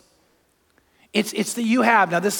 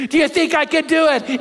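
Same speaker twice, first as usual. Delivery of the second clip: showman's call; 7 semitones higher, 3 dB louder than usual. Retold or imitated. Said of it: "he goes".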